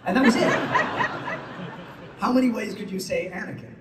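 ordinary delivery

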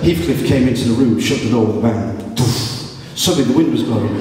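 theatrical read-aloud with full expression; dramatic reading. Retold or imitated. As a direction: act the story out like a stage reading. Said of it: "I wasn't like that".

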